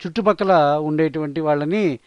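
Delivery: ordinary talk, nothing marked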